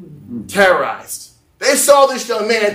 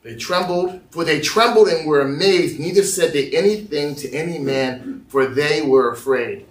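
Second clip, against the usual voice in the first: deliberate scripture reading with pauses; measured, low-key Bible reading; slow reading; 4 semitones lower than usual. Real, not acted. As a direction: read it slowly, phrase by phrase. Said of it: "I'm gonna read this slowly".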